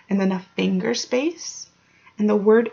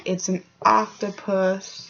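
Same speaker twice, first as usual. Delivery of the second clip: ordinary delivery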